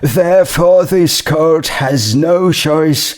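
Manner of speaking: stern judge passing sentence. Acted. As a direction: lay down the law from the bench.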